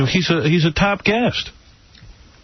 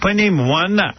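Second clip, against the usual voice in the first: higher mock Romanian accent; 5 semitones higher than usual. Imagined woman introducing herself, mock Romanian accent. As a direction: imitate the foreign woman's accent. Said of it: "That accent".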